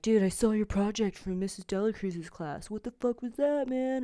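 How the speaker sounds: rising, incredulous schoolkid; high-voiced disbelief; mock amazement. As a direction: imitate a baffled classmate, pitch climbing. Imitates schoolkids amazed by project.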